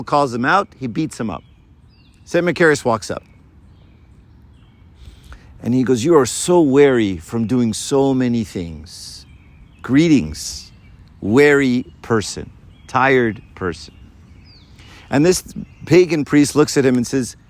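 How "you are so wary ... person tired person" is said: slow, tender greeting to a weary stranger; gentle saintly greeting. Acted. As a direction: greet him slowly, kindly, like a caring old monk. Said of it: "The way he said it".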